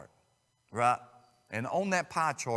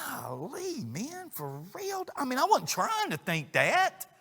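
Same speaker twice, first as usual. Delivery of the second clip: mock protest; 12 semitones higher, 4 dB louder than usual. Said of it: "And we're like".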